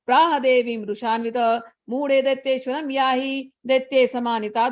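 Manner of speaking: steady chanted Sanskrit verse; scripture recitation. Acted. Storyteller recites the Sanskrit verse to listeners, chanted. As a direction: intone the shlokas evenly.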